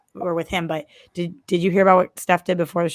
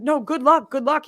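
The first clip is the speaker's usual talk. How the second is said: flustered; 7 semitones higher, 5 dB louder than usual. Retold or imitated. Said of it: "And she was like".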